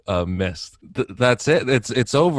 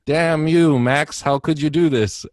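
angry cursing; 5 semitones higher, 4 dB louder than usual. Retold or imitated. Witches cursing Max in the retold plot.

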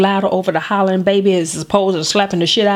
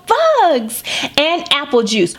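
put-on toddler voice; 3 semitones higher, slower than usual.

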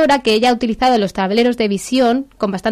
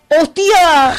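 loud, higher burst of surprise; surprised exclamation; 6 semitones higher, 6 dB louder than usual. Real, not acted. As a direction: blurt it out, caught off guard. Reacts to the oracle page.

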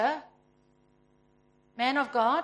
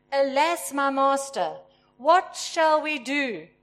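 worried servant; 6 dB louder, slower than usual. Acted. Servant asking his master for help, a touch anxious. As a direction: read slow and a bit louder, with a mild worried lament. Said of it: "Do we not sound like that sometimes?".

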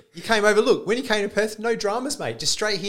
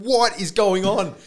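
higher, slow retold yell; mock scream; 6 semitones higher, slower than usual. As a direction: drag it out like a fed-up mock yell. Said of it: "just, like, screaming through my house going".

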